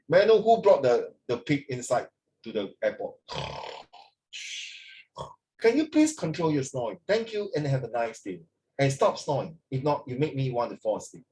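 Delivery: lightly voiced pilot on the intercom; mock captain announcement. Teacher jokingly voicing the captain over the plane speaker. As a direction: tease like a captain calling out a snoring passenger. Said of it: "the captain even say".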